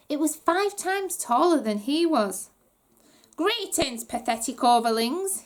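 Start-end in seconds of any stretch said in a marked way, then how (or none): 3.4-5.4 a hint of a squeaky pompous goblin; lightly squeaky, smugly grand greeting; mildly squeaky royal welcome; squeaky goblin prince. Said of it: "he said in a squeaky voice".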